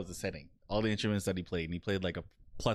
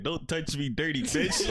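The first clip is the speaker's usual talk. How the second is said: higher-pitched retold outrage, half laughing; mock disgust; 5 semitones higher than usual. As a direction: quote the disgusted man through amusement. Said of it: "he looked truly disgusted too".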